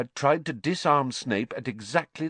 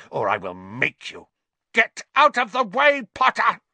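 pompous shrill tyrant; 3 semitones higher, 3 dB louder than usual. Acted. Snape ranting at Harry.

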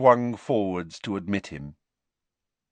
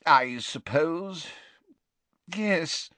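agitated Slughorn; 8 semitones higher, much slower than usual. A narrator's reading. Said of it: "in a rather agitated voice".

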